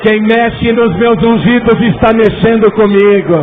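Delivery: loud, proclaiming preacher voice; preaching. Acted. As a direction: declare it like scripture. Preaching scripture at full force.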